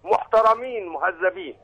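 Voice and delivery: loud, high caller shouting praise; shouting over a phone line. Real, not acted.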